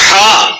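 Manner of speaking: careful recitation-style ہا, held long; letter articulation demo. Shown as a demonstration. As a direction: say ہا slow and drawn out, as a Qari articulates it. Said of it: "صحیح نہ نکلا". (قاری کے مخرج سے کھینچ کر ہا)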